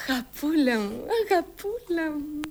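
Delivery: soft, drawn-out cooing; tender endearment. Acted. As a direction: coo gently to a little child. Fondling her little sister. (τρυφερά, χαμηλόφωνα)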